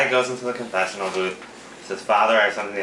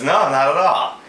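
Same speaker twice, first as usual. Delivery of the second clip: put-on old man voice; 6 semitones higher, 5 dB louder, slower than usual. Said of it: "He goes".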